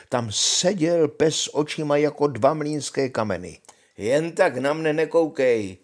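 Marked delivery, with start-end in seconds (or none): 4.0-5.8 louder, raised exclamation of the soldier; calling out. A narrator's reading. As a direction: exclaim it at the staring dog. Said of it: "zvolal voják". (zvolání vojáka, hlasitěji)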